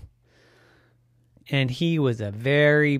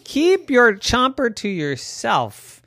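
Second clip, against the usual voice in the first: high scolding goose voice; 10 semitones higher, 5 dB louder, slower than usual. Acted. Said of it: "said Ricardo".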